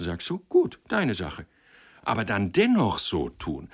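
impassioned moral scolding, building in force; wounded, emphatic reproach; reproachful matchmaker. Acted. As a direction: shame the young man earnestly.

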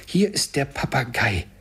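high-pitched delighted announcement; excited cry. A narrator's reading. Scrooge spots the parrot, crying out excitedly. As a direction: exclaim with childlike glee. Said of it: "rief Scrooge".

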